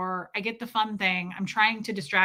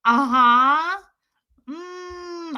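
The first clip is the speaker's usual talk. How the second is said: forced casual agreement; 6 semitones higher, 5 dB louder, much slower than usual. Retold or imitated. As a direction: fake nonchalant hum. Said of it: "trying to just be like".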